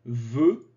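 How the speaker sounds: "veut" said "veu", the t silent, the same as "veux"; same sound as veux. Shown as a demonstration. Teacher showing learners that "veut" sounds like "veux". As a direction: say "veut" with no final t. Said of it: "donc même prononciation".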